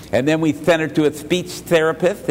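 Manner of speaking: SPEECH THERAPIST with lisped s sounds. Shown as a demonstration. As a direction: imitate a slight lisp on SPEECH THERAPIST. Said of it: "talk to her with a little bit of a lisp".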